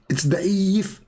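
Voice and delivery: high, whiny mock of a stubborn debater; mocking Abdul. Mocking Abdul who dismisses every hadith, high whiny voice. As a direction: toss it off like a stubborn know-it-all.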